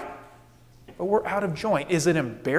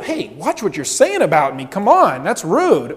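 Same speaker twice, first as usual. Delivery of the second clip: mock offended; 5 dB louder than usual. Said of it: "Or she doesn't say".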